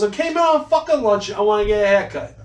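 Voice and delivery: high, fed-up protest; flustered customer. Retold or imitated. Customer complaining to the barber, high and fed up. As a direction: whine that it's just lunch. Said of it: "He goes".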